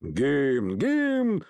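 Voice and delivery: a gang droning the word back in chorus; rumbling crowd shout. Acted. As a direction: echo the demand like a mob. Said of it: "загудели мерзавцы в папахах".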